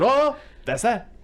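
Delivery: high, slow hammed-up villain voice; mock villain echo. Mattress man giving in to Barry, high, slow and mocking.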